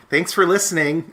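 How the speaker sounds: put-on old man voice. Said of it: "in my old man voice".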